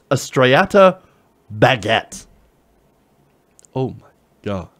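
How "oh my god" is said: disbelief. Real, not acted. Reacting to fancy sandwich names.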